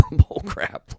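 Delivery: a derisive laughing dismissal; scoffing laugh. Real, not acted. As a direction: laugh it off as nonsense, high and loud. Scoffing at a shallow claim.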